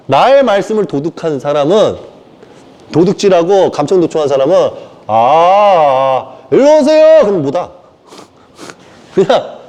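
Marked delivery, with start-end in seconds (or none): 5.1-7.2 drawn-out "아" like testing a microphone, then a loud call; mock mic check. Preacher testing a mic, then calling the faithful to come forward. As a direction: stretch each syllable, then announce loudly.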